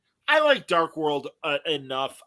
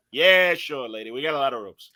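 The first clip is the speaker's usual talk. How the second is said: Chico Marx impression. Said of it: "that Chico Marx sort of went".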